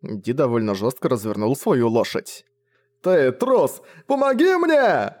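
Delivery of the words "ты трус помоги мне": shrieking much higher and louder, the plea drawn out slowly; desperate scream. A narrator's reading. Deserted baron screaming after D, much higher, drawn out. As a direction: scream after the rider who left you.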